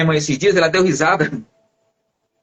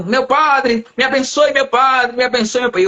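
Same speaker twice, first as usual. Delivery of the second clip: imitated repeated plea, pitched up; begging follower; 4 semitones higher than usual. Man following the pastor begging a blessing, imploring. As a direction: call after him insistently, a little higher.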